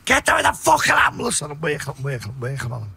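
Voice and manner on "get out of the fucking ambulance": high-pitched urgent yell; raised voice, retelling a panicked command; retold shout. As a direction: shout the order to clear out. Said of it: "I'm shouting".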